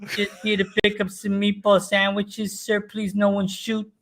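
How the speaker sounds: high, timid plea, slowing toward the end; scared kid voice. Retold or imitated. Kid begging mob guys at the bar, high and frightened.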